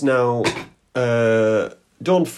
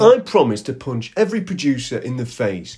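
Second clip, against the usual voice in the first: mock presenter bluster; 5 dB louder than usual. Parody presenter's bragging threat.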